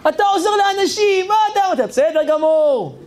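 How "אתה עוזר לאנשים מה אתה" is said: put-on high, fast, blessing old lady; grateful old woman. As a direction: gush your thanks like an old woman blessing him. Old woman praises Chaim. (זקנה מברכת בקול גבוה ומהיר)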